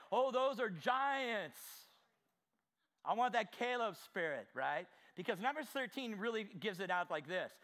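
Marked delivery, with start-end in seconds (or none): 0.1-1.6 fearful giants. Retold or imitated. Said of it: "those things that are like".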